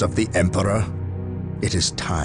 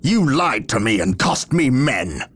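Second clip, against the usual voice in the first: raised pitch, heated accusation; indignant outburst, voice pitched up; angry accusation; 8 semitones higher than usual. Acted. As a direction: hurl the blame at them, pitched high. Captain accuses the other in anger.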